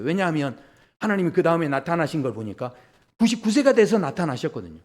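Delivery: ordinary talk, nothing marked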